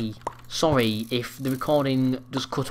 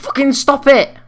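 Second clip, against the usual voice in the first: shrieked rage; 12 semitones higher, 9 dB louder than usual. Real, not acted. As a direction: shriek it out in fury. Killed again mid-sentence.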